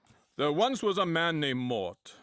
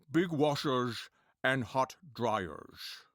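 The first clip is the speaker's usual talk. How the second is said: Sean Connery impression; much slower than usual. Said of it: "Sean Connery".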